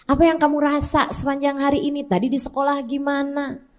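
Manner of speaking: put-on soft, tender mother asking her child; mother gently checking in at bedtime; gentle bedtime asking. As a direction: coax the child to share, softly. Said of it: "Tiap kali pulang sebelum tidur tanyain".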